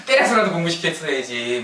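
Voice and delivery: mildly indignant complaint; mock angry reproach. Grown child blaming mother over studies, mildly mock angry. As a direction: act out a touch of anger at a parent. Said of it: "막 이렇게 막 화를 내요".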